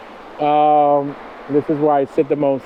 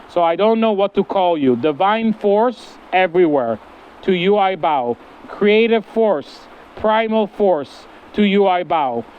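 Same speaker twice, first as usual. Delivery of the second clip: devotional recitation; 3 semitones higher than usual. Acted. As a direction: offer each line like a bow.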